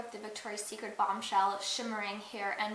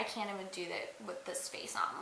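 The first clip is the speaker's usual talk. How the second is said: hushed aside, half-laughing; whispering; 4 semitones lower, 7 dB quieter than usual. Real, not acted. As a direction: whisper it like you're spooked. Scared of own makeup face.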